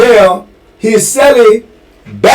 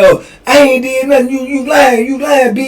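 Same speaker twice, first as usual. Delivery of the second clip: defiant yell; 8 semitones higher, faster than usual. Retold or imitated. Inmate yelling back at CO.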